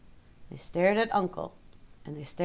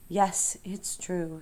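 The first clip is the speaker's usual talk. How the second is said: sigh; much slower than usual. Acted. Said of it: "sighed Charlotte".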